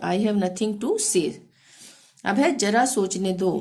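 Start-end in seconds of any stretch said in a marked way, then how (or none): 0.0-1.3 each English word said very slowly and clearly; slow dictation. Shown as a demonstration. Teacher dictating the English sentence, very slow. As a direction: spell it out slowly for learners. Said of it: "इसको हम अंग्रेजी में कैसे बोलेंगे?".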